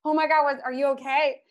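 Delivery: high, loud mock concern; imitated alarm. Wife imitates husband seeing her crying on the run, alarmed. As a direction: play up a worried husband's question.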